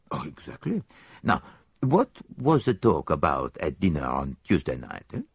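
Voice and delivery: lightly voiced Belgian detective; a hint of a fussy foreign sleuth; Poirot. Detective tells his friend where they will stay, lightly voiced.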